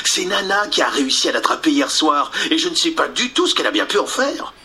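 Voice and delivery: voix aiguë, débit rapide; petite fée. Acted. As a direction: parler vite comme une fée affolée. Clochette répond, rapide. (fée qui s'excuse, rapide)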